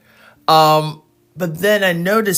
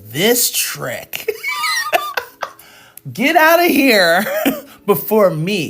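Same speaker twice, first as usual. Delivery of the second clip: louder mock outrage broken by laughter; mock indignant, laughing; 6 semitones higher, 3 dB louder, slower than usual. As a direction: play the jealous classmate, cracking up. Classmates' stank-eye inner voice.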